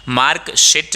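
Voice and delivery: "शीट" cut to a short i; wrong short vowel. Shown as a demonstration. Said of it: "नहीं बोलेंगे".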